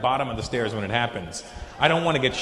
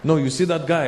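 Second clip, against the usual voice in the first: put-on Lebanese accent; 4 dB louder than usual. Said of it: "there's a big Lebanese guy".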